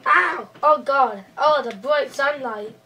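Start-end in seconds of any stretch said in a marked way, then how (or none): 0.1-1.6 loud pained yelp. Acted. Sack pulled off, bright light.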